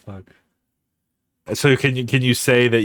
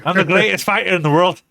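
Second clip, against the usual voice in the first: Conor McGregor impression; 5 semitones higher than usual. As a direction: brag like a prizefighter in an Irish accent. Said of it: "That's more Scottish".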